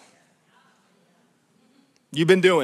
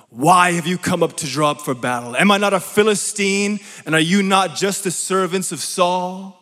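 mildly raised, taunting Goliath voice; shouted challenge. Acted. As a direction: challenge the ranks, without a full shout. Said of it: "He stood and shouted to the ranks".

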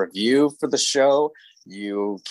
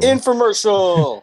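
gleeful exclamation; 9 semitones higher, 4 dB louder, slower than usual. Real, not acted. Echoing partner's joke, exaggerated.

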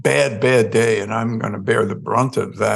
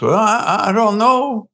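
1 hapless guy; 5 semitones higher than usual. Retold or imitated. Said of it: "And this dude is".

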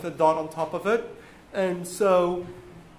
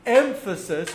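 EMPHASIS with the first syllable EM leading; stress demo. Shown as a demonstration. Teacher showing where emphasis can go, first-syllable stress. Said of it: "when you want to say an".

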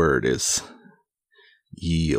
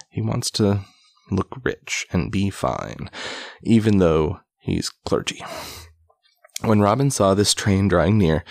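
measured, emphatic read-aloud storytelling; projected storybook reading; story narration; 3 semitones higher than usual. A narrator's reading. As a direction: read an old tale aloud with relish. Reads an old tale aloud.

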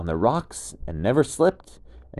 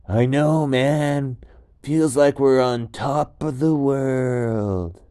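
higher, louder, slow dude voice; laid-back gecko; 6 semitones higher, 8 dB louder, slower than usual. Acted. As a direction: gecko savoring the summit. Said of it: "they both said".

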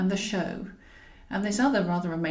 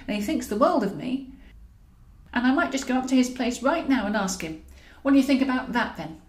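defiant taunt; 3 semitones higher than usual. Acted. Taunting him with another man.

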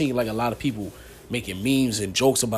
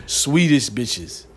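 put-on very slow, louder Swedish accent; 6 dB louder, much slower than usual. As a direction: drag it out like a Swede. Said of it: "I was trying to do their accent".

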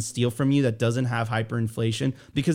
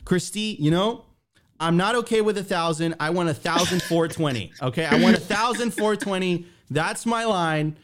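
higher, half-joking plea to Christy; mock pleading boyfriend; 5 semitones higher than usual. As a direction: play the whiny haggler. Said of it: "did you tell her".

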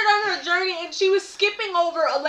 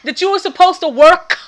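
mock-exasperated telling-off, raised and punchy; retold scolding; 2 semitones higher, 5 dB louder than usual. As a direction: hammer out a playful reprimand. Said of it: "Caught him and then was like".

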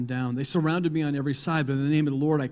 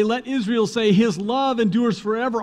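high, loud temple priest calling; priest's call; 9 semitones higher, 8 dB louder than usual. Retold or imitated. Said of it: "when the priest would say".

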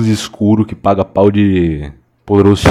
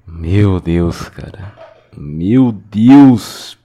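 louder exasperated groan; 4 dB louder, much slower than usual. Real, not acted. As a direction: groan at the screen. Reacting to a comment.

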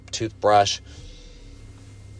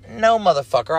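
mock angry refusal; 9 semitones higher, 3 dB louder than usual. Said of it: "I'm like".

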